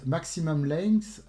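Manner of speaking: slow English words in a rough French accent. Real, not acted. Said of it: "désolé pour mon accent anglais un peu pourri". (anglais avec un accent français un peu pourri)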